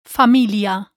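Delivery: Familia with a pure Spanish i. Shown as a demonstration. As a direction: say Familia with crisp Spanish vowels. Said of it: "Repeat after me".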